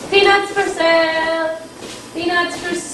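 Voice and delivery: sung vendor hawking; peanut vendor call. Pretend. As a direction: call it like a street seller.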